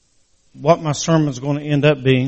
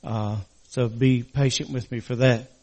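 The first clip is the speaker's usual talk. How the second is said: talking with a crooked mouth after surgery; slightly slurred, stiff mouth. Real, not acted. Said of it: "my mouth's still a little crooked".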